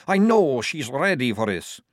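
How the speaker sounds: loud, strained gasping. A narrator's reading. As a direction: push the words out through gasps.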